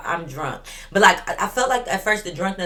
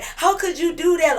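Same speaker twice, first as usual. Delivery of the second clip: mock whiny girlfriend; 10 semitones higher than usual. Veronica voiced in story.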